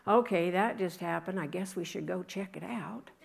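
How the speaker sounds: offhand, shrugging shepherd voice; mock calm. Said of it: "do you think that they calmly went".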